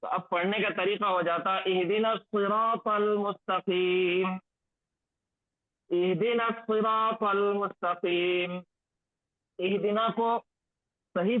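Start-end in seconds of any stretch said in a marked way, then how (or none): 1.7-8.6 slow measured recitation; slow Quranic reading as a model. Shown as a demonstration. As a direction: recite it slowly, each syllable drawn out. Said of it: "recites the verse as model".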